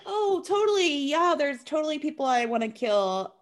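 breezy mock agreement starting high; mock eager agreement. Host voices her going along with the murder talk, airy mock agreement. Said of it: "And so she's like".

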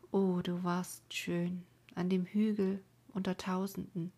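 put-on a mournful young woman keening by night, by turns calling out and whispering; grieving maiden's lament. Maiden mourns lover and brother on the rock, keening. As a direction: sing out her grief over the dead lover and brother. Colma's lament read as a voiced figure.

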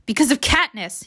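angry. Acted. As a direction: spit the blame out. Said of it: "says Peeta angrily".

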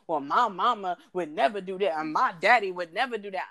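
imitated southern accent in swaying tune. Host mimicking people who invoke their parents, southern accent. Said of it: "do a southern accent".

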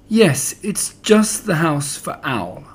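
slow, grand declaration; mild grand Piglet, brave and slow; grandly. Acted. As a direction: puff up and say it nobly. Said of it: "he said grandly".

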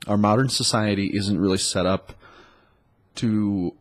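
blocked nose from a cold; stuffed up. Real, not acted. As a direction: talk through a stuffy nose. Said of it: "I'm kinda stuffed up this morning".

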